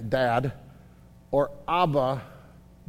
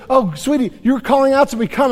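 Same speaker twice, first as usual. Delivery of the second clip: put-on higher, gushing father calling his child; doting dad; 6 semitones higher, 4 dB louder than usual. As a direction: melt as your toddler calls you. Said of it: "when the dad goes".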